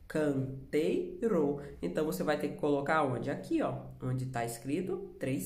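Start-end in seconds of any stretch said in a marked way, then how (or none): 0.0-1.6 "Canteiro" slowly broken into can, tei, ro; three separated beats on "Canteiro"; syllable by syllable. Shown as a demonstration. Teacher confirms three syllables, "Canteiro" slowly sounded out. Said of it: "canteiro tem quantas sílabas?".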